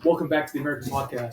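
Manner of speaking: quick mock-American podcast intro; American accent. Attempting broad American for friends, quick American accent. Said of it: "broad American?".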